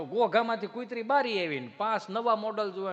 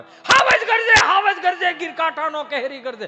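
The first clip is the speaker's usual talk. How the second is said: roaring recitation; 8 semitones higher, 12 dB louder than usual. Retold or imitated. Schoolteacher roaring the lion poem at the class. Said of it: "પછી એમ પાઠ ભણાવે".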